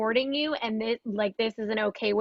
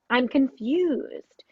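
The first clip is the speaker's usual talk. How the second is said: whispered; 4 dB louder, much slower than usual. Retold or imitated. Narrating a child's feeling.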